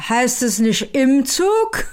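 put-on slow, pedantic drunk correction; drunk language cop. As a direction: correct the grammar like a tipsy pedant. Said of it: "das ist die Sprachpolizei". (langsam, pedantisch, betrunken)

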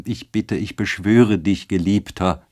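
a touch of slow, earnest begging; Ottilie imploring. Acted. Ottilie begging Eduard to return, mildly imploring. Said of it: "rief sie aus".

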